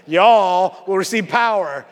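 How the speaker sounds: light Southern drawl on a slow "Y'all"; Southern accent. Shown as a demonstration. Preacher rereads the verse as if Jesus were Southern, Southern accent. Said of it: "Jesus had a Southern accent".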